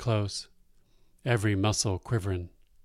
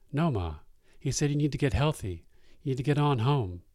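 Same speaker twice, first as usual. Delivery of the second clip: higher, fast urgent protest; pleading; 5 semitones higher than usual. Acted. Son begging his mother to stay, mildly higher and hurried. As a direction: rush to talk her out of it.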